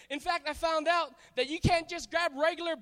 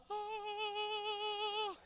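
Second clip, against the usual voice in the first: amazed "oh"; 7 semitones higher, 7 dB quieter than usual. Retold or imitated. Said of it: "I was".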